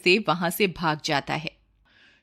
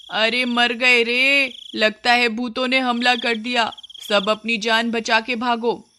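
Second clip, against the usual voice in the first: panicked coward; 5 semitones higher than usual. Acted. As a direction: cry out as if ghosts are attacking. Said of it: "असल में तो तू बहुत डरपोक है". (डर से घबराई हुई, ऊँची धीमी कराह)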